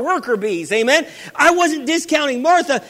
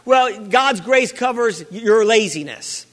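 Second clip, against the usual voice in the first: mock wrong claim; 3 semitones lower, slower than usual. Shown as a demonstration. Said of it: "God's grace does not cover laziness".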